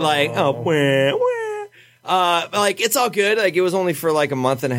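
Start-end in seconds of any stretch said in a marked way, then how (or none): 0.0-1.3 hammed-up wah wah sobs; playful fake crying about the breakup; mock crying. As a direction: fake boohoo wail, playing it up. Mock sobbing over a breakup.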